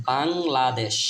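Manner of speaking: বাংলাদেশ drawn out in separate syllables. Shown as a demonstration. Teacher modelling the word for learners, বাংলাদেশ slowly syllable by syllable. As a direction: sound out বাংলাদেশ slowly, part by part.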